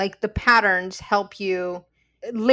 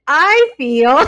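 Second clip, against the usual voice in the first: a louder, higher "I feel" that breaks into a laugh; laughing I-statement; 5 semitones higher, 8 dB louder than usual. Retold or imitated. Telling her co-host about practicing tools, laughing. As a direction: laugh through it at yourself. Retelling using calm I-statements in fights.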